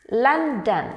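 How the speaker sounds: "London" with a break between Lon and don; two separate beats. Shown as a demonstration. Teacher showing learners the break, "London" beat by beat. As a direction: sound out "London" as two syllables. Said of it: "there is a break in between".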